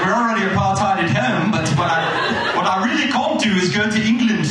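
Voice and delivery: lightly done South African accent, mock-indignant; a hint of a South African voice. Comedian mocking Keegan's home country in a light South African accent. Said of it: "that's a pretty good South African".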